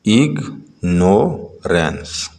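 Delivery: اگنورینس very slow, with gaps between syllables; drawn-out teaching version of اگنورینس, piece by piece. Shown as a demonstration. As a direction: sound out each syllable of اگنورینس separately. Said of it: "Read the following multi-syllable words".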